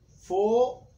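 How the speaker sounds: "fogaus" drawn out loud and high; wrong plural demo. Shown as a demonstration. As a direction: stretch "fogaus" into two loud, separated syllables, fo-gaus. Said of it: "não existe o plural de fogão".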